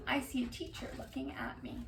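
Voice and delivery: soft storybook whisper; whispered picture-book line. Acted. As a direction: breathe it out like a secret. Reads line hushed to kittens.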